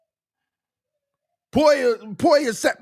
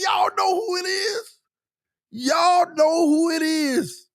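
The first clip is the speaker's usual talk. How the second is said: teasing hype; 10 semitones higher than usual. Real, not acted. Teasing viewers about the signing.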